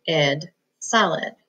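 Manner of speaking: "id" then whole "solid" slowly; slow blend; blending syllables. Shown as a demonstration. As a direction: join the parts into one word. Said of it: "split that one right in the middle".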